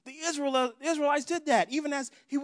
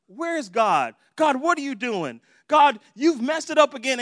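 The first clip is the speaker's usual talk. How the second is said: loud mock complaint to God; fussing; 7 dB louder than usual. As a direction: fuss at God, building louder. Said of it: "they're already fussing".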